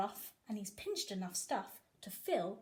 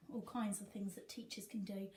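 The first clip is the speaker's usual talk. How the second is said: whispered aside; 7 dB quieter than usual. Acted. Hushed aside after reveal.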